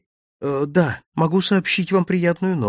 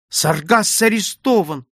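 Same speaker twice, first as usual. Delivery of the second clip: slow, higher shocked exclamation; exclaiming; 6 semitones higher, 3 dB louder than usual. A narrator's reading. Sophie hearing Sargas was arrested, slow shocked exclamation. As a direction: repeat the news in disbelief. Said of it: "воскликнула она".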